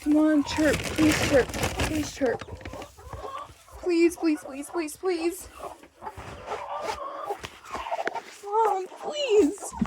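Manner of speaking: rising, begging please; tender pleading to a chick. Real, not acted. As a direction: softly beg the chicks to chirp.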